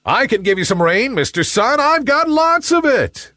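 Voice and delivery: high, quick boastful voice; excited high-pitched cloud character; eager little rain cloud. A narrator's reading. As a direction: offer it eagerly, pitch climbing. Voices Nimbus eagerly offering rain.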